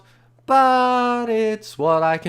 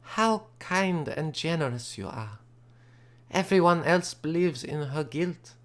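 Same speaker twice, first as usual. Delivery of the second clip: higher and softer, a touch of despair; lightly voiced grateful young woman; 3 semitones higher, 6 dB quieter than usual. Elizabeth thanking her cousin, mildly tearful and soft. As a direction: gush thanks, then sink into hopelessness.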